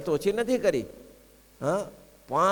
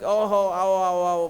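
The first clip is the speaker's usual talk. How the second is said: delighted welcome; 3 semitones higher, 5 dB louder, slower than usual. Retold or imitated. Maharaj welcomes Premanand Swami, delighted and louder. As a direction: call him in warmly, delighted. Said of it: "Premanand સ્વામીને મહારાજ".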